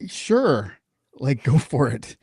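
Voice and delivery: high, slow shrug of a sure; mock-breezy go for it; careless guesser. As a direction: toss it off like a guy who doesn't know. Mocking careless intel guy.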